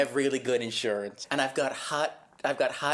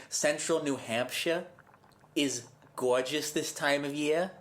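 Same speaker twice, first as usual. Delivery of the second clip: put-on Massachusetts accent. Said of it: "You sound like you're from Massachusetts".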